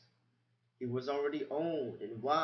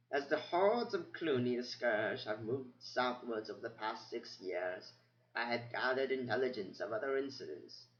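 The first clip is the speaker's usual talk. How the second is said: put-on old mouse reading records. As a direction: murmur through old notes, pausing. Methuselah recites from memory.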